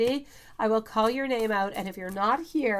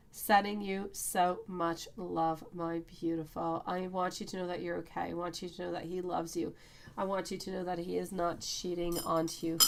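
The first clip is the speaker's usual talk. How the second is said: gentle and softer, slowing down to comfort her; soft reassurance; 5 dB quieter than usual. Real, not acted. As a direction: soothe a worried viewer tenderly. Reassuring a worried viewer.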